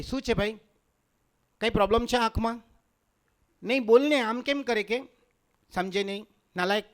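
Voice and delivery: mild mock Mumbai telling-off; Mumbai woman. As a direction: scold in a Mumbai girl's manner. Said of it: "મુંબઈની બાયુને કોઈ છોકરાઓ જુએ ને".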